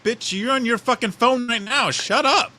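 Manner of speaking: high, slow, mocking snap back at the boss; sarcastic comeback to a hypocritical boss; retorted comeback. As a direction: drag it out high and sassy, mocking him. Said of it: "I'm like".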